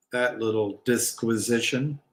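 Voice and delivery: usual speaking voice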